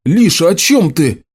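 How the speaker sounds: rasped out, pinned and confused; hoarse bewildered croak. A narrator's reading. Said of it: "прохрипел Гаррет".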